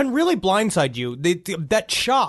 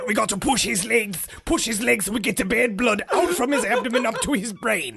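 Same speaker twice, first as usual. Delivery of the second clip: mock old-timey doctor; 7 semitones higher than usual.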